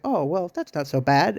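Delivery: lightly imitating a breezy, carefree shrug; light playful tone. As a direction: say it like it's no big deal, a touch playful. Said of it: "playful tone of, like, a light, happy tone of voice".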